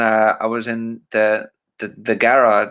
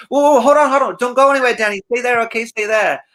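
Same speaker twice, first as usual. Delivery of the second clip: high and louder, urgent falsetto; urgent Michael call; 12 semitones higher, 5 dB louder, faster than usual. Retold or imitated. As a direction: call out high to stop him leaving. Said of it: "And he said".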